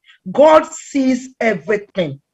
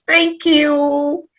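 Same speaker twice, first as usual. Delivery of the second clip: higher, drawn-out pleased thanks; 5 semitones higher than usual. Retold or imitated. Answering a young man praising her new hair, pleased thanks. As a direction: act out being flattered, stretch the last word. Retold reply to admiring coworker.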